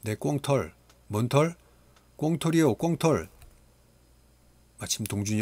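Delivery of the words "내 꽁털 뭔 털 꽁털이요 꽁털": desperate plea. Acted. Pleading for his feather.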